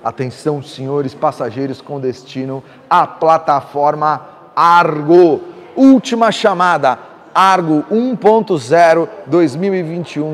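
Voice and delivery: mock gate announcer over the PA; airport boarding announcement. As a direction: call the last boarding like an airport speaker. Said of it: "vou falar assim, ó, última chamada".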